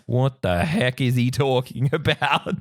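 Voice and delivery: slow, mock bewilderment; drawn-out confusion breaking into a laugh; baffled guest. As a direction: imitate a puzzled guest walking off. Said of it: "walked away and been like".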